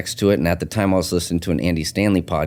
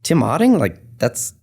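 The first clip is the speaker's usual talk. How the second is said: surprised; 6 semitones higher than usual. Retold or imitated. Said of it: "I'm like".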